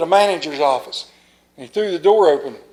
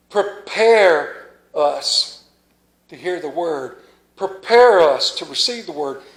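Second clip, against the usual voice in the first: leading a prayer. Acted. Pastor leading the church in prayer before the sermon, earnest. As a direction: pray it out, stretching each prepare us.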